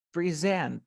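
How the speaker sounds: "present" stressed on the end, pre-SENT; verb stress. Shown as a demonstration. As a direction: hit the second syllable of "present". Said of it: "As a verb".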